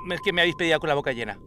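talking through a mouthful; words round a bite of squid; mouth full. Real, not acted. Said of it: "Yo estaba desayunándome dos sepias".

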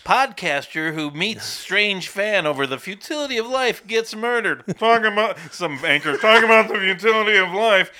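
lightly done news anchor read; newscaster voice. Pretend. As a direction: announce it like the evening news. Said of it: "Later, newscast".

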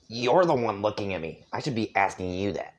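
put-on grumbly irritated kid; annoyed grunting voice. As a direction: mutter it back, annoyed. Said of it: "I'll just go a deep kind of annoyed grunting voice".

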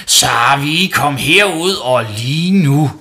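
high, loud, slow commanding yell; angry summons. Acted. Mum calling Savi to the bathroom, yelling. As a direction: order the child out here. Mother angrily summoning her son.

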